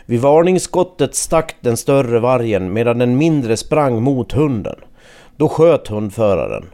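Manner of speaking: measured radio news read with falling sentence endings; news report narration. A narrator's reading.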